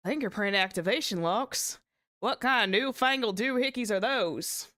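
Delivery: baffled Southern cowboy retake; swinging, twangy Southern question; Southern twang. Acted. Witness puzzled by new gadgets, Southern twang. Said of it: "that actually came out really nice".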